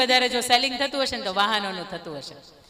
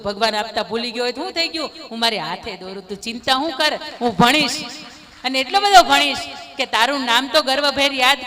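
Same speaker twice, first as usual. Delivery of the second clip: put-on confident child. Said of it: "આત્મવિશ્વાસની સાથે એવું કહે છે કે".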